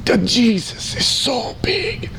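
high, slow, drawn out; joyful exclaim. Retold or imitated. Friend marvelling at his faith, slow high wonder. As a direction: stretch it out in awe. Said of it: "He says".

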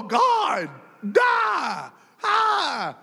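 high strangled mock wail; mock anguished cry. Preacher miming a quick pained prayer, high cry. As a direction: cry out to God in hammed-up anguish. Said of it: "Just go".

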